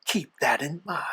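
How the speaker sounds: sinister hushed rasp; hushed devil voice. Acted. Devil guest.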